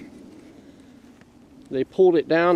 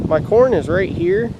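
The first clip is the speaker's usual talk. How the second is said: shouting over wind; 3 semitones higher, 4 dB louder than usual. Real, not acted. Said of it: "ripping around in here like crazy".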